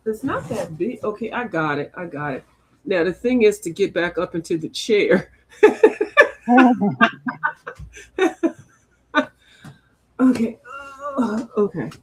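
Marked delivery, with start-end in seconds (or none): 2.8-5.3 laughing. Real, not acted. Climbing back up, laughing. 5.6-7.8 loud, high burst of laughter; laughing. Real, not acted. Laughs at getting back up.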